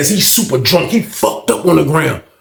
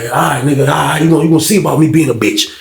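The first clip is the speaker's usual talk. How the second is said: lower-pitched muttered warning, acting out an inmate; retold low threat; 5 semitones lower than usual.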